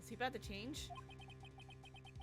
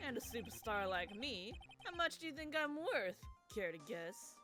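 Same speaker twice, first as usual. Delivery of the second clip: sinister bro voice. Acted. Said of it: "the bro voice, but more sinister".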